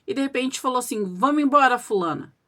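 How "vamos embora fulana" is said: imitated gruff voice. Changed husband ordering his wife to leave, imitated gruff voice. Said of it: "de uma voz grossa".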